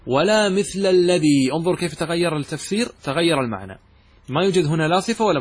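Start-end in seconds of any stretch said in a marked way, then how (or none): 0.1-1.5 slow paraphrase. Shown as a demonstration. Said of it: "وكأنك قلت".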